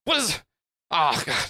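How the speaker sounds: high, fast, exasperated gangster; flustered boss. Acted. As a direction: rattle it off annoyed and rushed. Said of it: "he's like".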